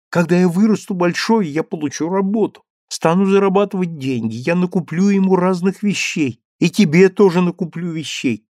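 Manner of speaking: put-on high eager child promising everything; boy promising and pleading; begging boy. A narrator's reading. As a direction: talk fast to win mother over.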